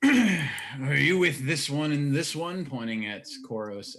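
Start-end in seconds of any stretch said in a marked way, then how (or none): 0.0-2.6 slow, higher, louder character voice; confrontational Osk. Acted. Osk confronting a stranger at the bar, slow and loud. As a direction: challenge them, leaning slowly on each word. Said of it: "looks you square in the eyes".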